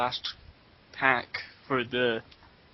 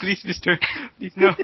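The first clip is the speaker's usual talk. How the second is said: put-on rising pleading Hispanic accent; 5 semitones higher, 5 dB louder than usual. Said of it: "This is like".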